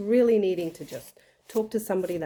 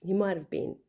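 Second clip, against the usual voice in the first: lighthearted; 3 semitones higher than usual. Retold or imitated. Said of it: "I just lightheartedly said to her".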